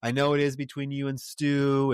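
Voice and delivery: mock noncommittal hedging, drawn out at first; tiptoeing evasion. Boss dodging employee's promotion question, mock tiptoeing evasion. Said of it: "tiptoey around".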